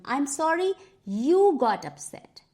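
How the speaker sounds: slow, leaning on "you" as the one to blame; stress on you. Shown as a demonstration. Teacher showing how the apology blames the victim, stressing you. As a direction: stress "you" in "I'm sorry you got upset" to shift blame. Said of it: "So the culprit is you".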